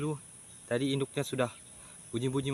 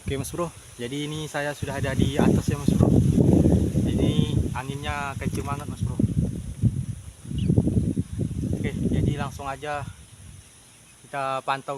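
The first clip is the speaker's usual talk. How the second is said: loud, raised voice against strong wind; shouting over wind; 7 dB louder than usual. Real, not acted. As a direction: call out over the gusts. Ini anginnya kenceng banget Mas Bro.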